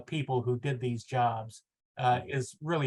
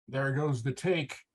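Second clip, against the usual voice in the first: understated disgust, said slowly; disgusted mutter; slower than usual. Acted. Nimoy grumbling as the scene falls apart, slow disgust. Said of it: "muttered Nimoy disgustedly".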